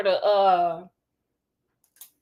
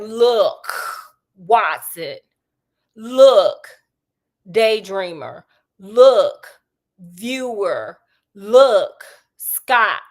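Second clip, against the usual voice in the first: urgent calls to listen; 2 semitones lower, 6 dB louder, much slower than usual. Retold or imitated. Sherlock urgently calls everyone to attention.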